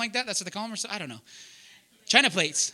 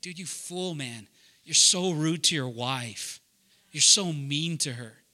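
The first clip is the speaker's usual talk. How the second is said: hint of God scolding a rude husband; God rebuking; 6 semitones lower, slower than usual.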